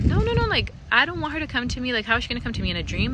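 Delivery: high, loud string of refusals; acted-out frantic objection, high and loud; alarmed protest. Acted alarmed refusal of grandma's visit.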